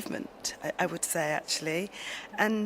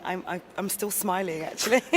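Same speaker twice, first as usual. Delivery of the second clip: smiling voice. Real, not acted. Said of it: "you can kind of hear the smile in your voice".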